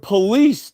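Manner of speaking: police as "puh-LEESE", stress on the end; mispronunciation on show. Retold or imitated. Speaker cites the supposed mistake, police as puh-LEESE. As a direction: stress the second syllable of police. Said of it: "got you mispronouncing it police".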